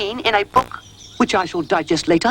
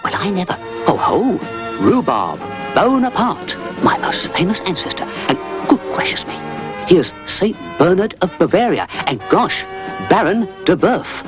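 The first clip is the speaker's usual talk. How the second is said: higher, amazed dog voice; sputtering; 8 semitones higher than usual. A narrator's reading. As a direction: sputter in wonder at each name. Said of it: "sputtered Rhubarb".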